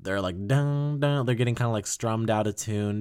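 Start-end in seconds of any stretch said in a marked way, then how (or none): 0.5-1.3 guitar imitation. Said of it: "the guitars are sort of kinda".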